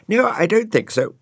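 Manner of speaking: a hint of a proud dog saying no; Dougal refusing. A narrator's reading. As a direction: turn it down with offended dignity.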